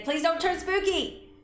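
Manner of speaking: high plea. Real, not acted. Player pleading with the painting, high slow squeak. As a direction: beg the painting not to turn spooky.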